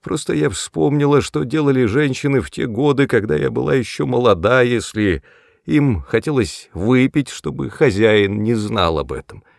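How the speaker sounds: put-on high, giggling old woman. A narrator's reading. Tipsy mother giggling over an old memory. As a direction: giggle through the tale. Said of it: "хихикала она".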